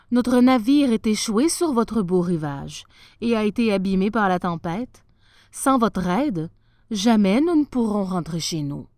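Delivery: a stranded sailor begging a king; lightly voiced captain, loud and pleading; sea captain's plea.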